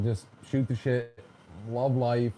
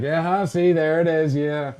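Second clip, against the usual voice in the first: teasing; 5 dB louder than usual. Retold or imitated. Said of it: "I may or may not be an asshole about it".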